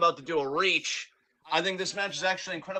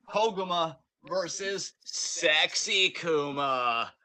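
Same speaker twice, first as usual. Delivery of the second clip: ring announcer voice; much slower than usual. Acted. Announcing the next match.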